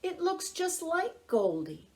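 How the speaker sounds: high, impressed friend voice; Bob's voice. Acted. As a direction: play Bob, pitched well up. Bob admires Pete's painting.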